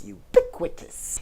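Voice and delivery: ubiquitous squeaked way up high; squeaky high take. Shown as a demonstration. Showing a word that is fun to say, squeaky high. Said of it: "fun to say".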